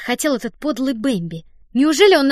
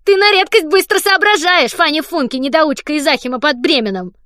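higher and louder, fiendishly pleased; devilish gloating; 6 semitones higher, 8 dB louder than usual. Acted. Don gloats over Fanny's blunder, devilish glee. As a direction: grin through every word like a little devil. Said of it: "Дон дьявольски ухмыльнулся".

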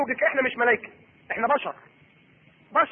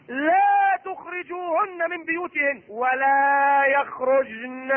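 Quranic recitation; slower than usual. Acted. Quotes Quran in sermon.

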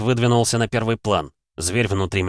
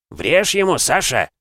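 cheering shout; 8 semitones higher, 3 dB louder, slower than usual. Acted. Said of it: "прокричали знакомым мужским голосом".

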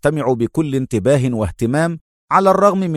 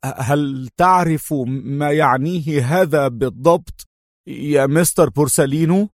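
mild fearful slowness; trembling voice; 3 semitones higher than usual. A narrator's reading. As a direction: ask it as if the news scares him. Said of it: "وقال بصوت مرتجف".

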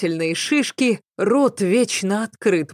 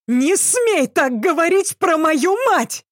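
shrill hysterical scream, pitch way up, louder; hysterical yell; 11 semitones higher, 3 dB louder than usual. A narrator's reading. Son screams defending his dead mother, hysterical. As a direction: shriek it, losing control. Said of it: "заорал он истерично".

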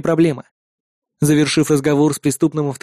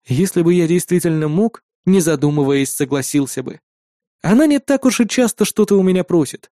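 ordinary delivery

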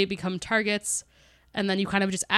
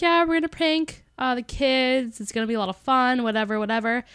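lightly imitated carefree mom, raised at the start; casual, totally fine mom; 3 semitones higher than usual. Mom introducing a prank on the kids, lightly mimicked breezy manner. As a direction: toss it off like a mom with no worries. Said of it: "she seems totally fine".

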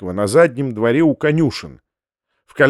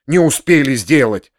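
spiteful echo. Acted. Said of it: "злобно переговорил".

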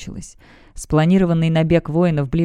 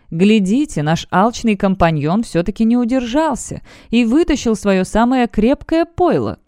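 a smirking jab at a comrade, higher-pitched; mocking smirk; 4 semitones higher than usual. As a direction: tease him with a light snort in the voice. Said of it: "хмыкнул информатор". (насмешливо, с хмыканьем)

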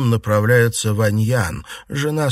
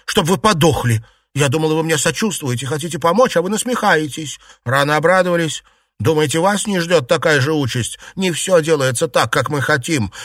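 raised, higher bitter scolding; angry scolding; 7 semitones higher, 4 dB louder than usual. A narrator's reading. Yuanyang berating the maids who mock her, angrily. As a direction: pour out her hurt and fury at them. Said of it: "крикнула Юань-Ян".

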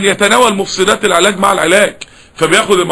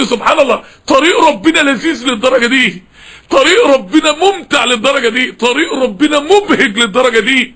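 higher-pitched, marvelling exclamation; retold amazement; 4 semitones higher than usual. Preacher retelling his discovery about God's path, amazed. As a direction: relive the wonder, pitched up.

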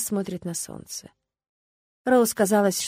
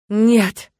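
echoing ethereal energy being; 8 dB louder than usual. Acted. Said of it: "раздался незнакомый гулкий голос".

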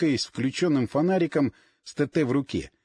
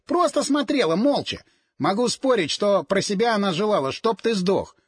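a hint of a strange croaking voice, pressing; lightly voiced sinister brother, accusing; understated eerie croak of the double; croaking alien voice. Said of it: "Он выкаркивал слова каким-то чужим голосом".

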